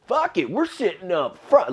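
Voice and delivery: high, loud mock party girl; woo girl voice. Drunk girl at a comedy show, high and rowdy. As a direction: ham up a rowdy drunk girl claiming the front row.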